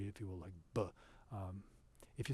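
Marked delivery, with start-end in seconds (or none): 0.4-0.8 b said hard, lips closed. Shown as a demonstration. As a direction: give a firm hard b. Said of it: "sort of a hard B".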